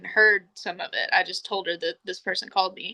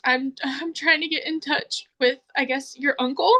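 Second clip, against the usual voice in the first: raised voice imitating an upset caller; high-pitched distraught woman; 5 semitones higher than usual. Caller trying to reach the listener's uncle, high-pitched. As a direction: lift it high, hesitant and upset. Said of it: "She's got a high-pitched voice".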